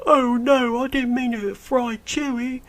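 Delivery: very high, loud, ditzy gasp; mock Rey. Mocking Rey after she blows up the transport, squeaky high. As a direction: squeal it like a clueless heroine. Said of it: "She's like".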